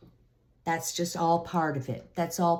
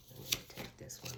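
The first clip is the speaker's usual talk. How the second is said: breathy whispered aside to herself; 15 dB quieter, faster than usual. Real, not acted. Reader drawing a card for Virgo, whispered. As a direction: murmur it under your breath while picking.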